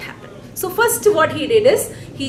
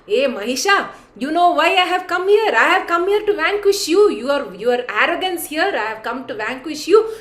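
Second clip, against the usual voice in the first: scornful challenge; 3 semitones higher, 4 dB louder than usual. Retold or imitated. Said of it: "just laughs and says".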